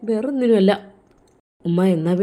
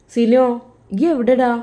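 raised voice, calling his name; 2 semitones higher, 4 dB louder than usual. Acted. Sister calling her brother on the phone, raised and eager. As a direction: call out to him, a little louder.

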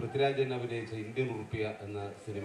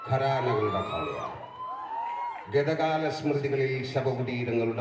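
loud declamatory film-hero monologue; Lalettan impression; 6 dB louder than usual. Shown as a demonstration. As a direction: declaim it grandly, phrase by phrase with pauses. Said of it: "ലാലേട്ടന്റെ ആറാം തമ്പുരാൻ എന്ന പുതിയ, പുതിയ ശബ്ദമാണ്". (Cinema നായകന്റെ ശബ്ദാനുകരണം, ഉറക്കെ)

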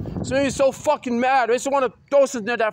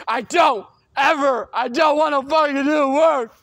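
louder refusal, building heat; angry shout; 4 dB louder than usual. Real, not acted. Refusing to do schoolwork, angry louder shout. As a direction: yell the refusal in real anger.

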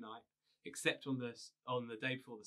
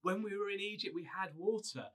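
higher whiny complaint, lightly voiced; grumbling Israelites; 5 semitones higher than usual. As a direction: moan at Moses like a put-out crowd. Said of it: "they grumble at him again".

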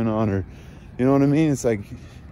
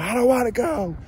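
imitated toddler scream; 11 semitones higher than usual. Father imitates daughter refusing to leave the park, high mock whine. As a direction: squeal it like a little girl refusing to leave. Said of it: "She screamed".

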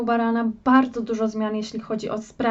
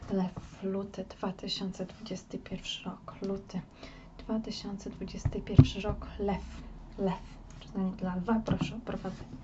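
whispered repetitive mantra; whispering; 3 semitones lower, 8 dB quieter than usual. Acted. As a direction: breathe the words while shuffling. Whispered repetition while shuffling.

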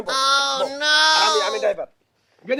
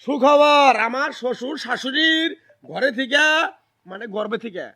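through a megaphone. Shown as a demonstration. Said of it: "তোমারে কবার কইছি যে".

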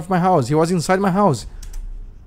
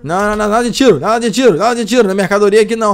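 higher, louder no no; loud protest; 4 semitones higher, 3 dB louder, faster than usual. Acted. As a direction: firmly forbid it. Stopping a shot at goods.

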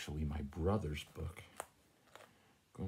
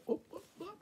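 startled oh-oh; much faster than usual. Real, not acted. Cat knocking things over.

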